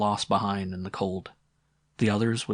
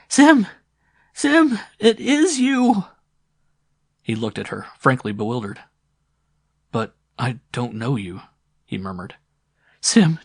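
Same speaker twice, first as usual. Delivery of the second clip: put-on excited old woman; 12 semitones higher, 5 dB louder than usual. A narrator's reading. Old sister recognizing brother.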